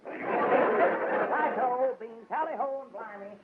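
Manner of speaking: lightly voiced cockney-ish butler; fake British accent. Butler hangs up the fur, putting on a hammed-up British accent. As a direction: toss it off in a mock English accent. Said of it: "your man has a rather peculiar accent".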